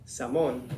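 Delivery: SALMON as "sah-MOAN", long O; mispronounced salmon. Shown as a demonstration. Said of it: "you're saying it wrong".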